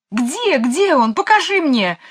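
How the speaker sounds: высоко, медленно, задыхаясь; умоляет, едва переводя дух; задыхаясь, молит. A narrator's reading. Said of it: "задыхающимся голосом молила". (мисс Ларк молит Майкла, задыхаясь и высоко)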